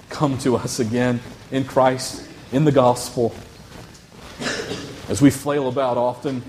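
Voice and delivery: measured prayer with long pauses; earnest, unhurried pastoral prayer; public prayer. Real, not acted. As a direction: pray aloud for the congregation, phrase by phrase. Leads a closing prayer.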